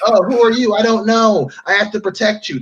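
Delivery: hammed-up trailer hero; mock earnest hero. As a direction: parody a solemn action hero.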